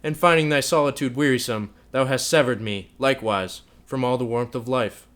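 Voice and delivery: loud, bitter accusation; scornful rage, loud and bitter; angry scorn. A narrator's reading. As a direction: hurl every word at her. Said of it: "with venomous scorn and anger".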